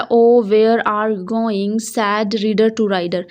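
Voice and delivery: slow, drawn-out recital of a poem line; poem reading. Shown as a demonstration. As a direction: read it like reciting poetry. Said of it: "poem थी उसको बताया हुआ है".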